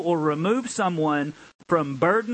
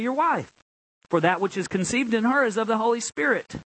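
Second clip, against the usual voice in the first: raised-pitch proclamation; emphatic preaching; 6 semitones higher than usual. Real, not acted. Pastor telling the angel's promise to Joseph, emphatic preaching.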